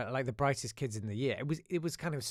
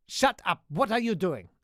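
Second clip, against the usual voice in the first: loud, high mock yell; hammed-up furious outburst; angry teacher; 6 semitones higher, 9 dB louder than usual. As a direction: imitate a teacher barking at a pupil. Teacher towering, yelling at pupil.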